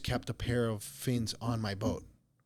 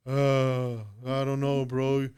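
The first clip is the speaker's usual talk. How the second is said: slow, drawn-out mock groan; lightly voiced rescued man; much slower than usual. Half-drowned man thanks his rescuer, lightly imitated groaning drawl. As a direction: drag the words out as an imitated spent swimmer.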